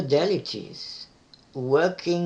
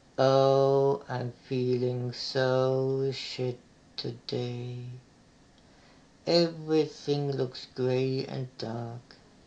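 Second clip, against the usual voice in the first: listless, sluggish, slow drawl with stretched words; 4 semitones lower, 3 dB quieter than usual. Demonstrating how a depressed voice should sound: lethargic voice. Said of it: "The voice needs to be like lethargic".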